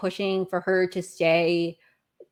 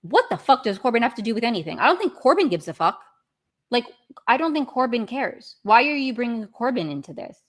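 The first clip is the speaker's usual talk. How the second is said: raised-pitch retold outburst at the TV, half-mock; shocked outrage; 4 semitones higher than usual. Reality-show fan reacting to Sincere, in retold indignant disbelief. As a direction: fire off the questions, stunned and fed up. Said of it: "And I was shocked".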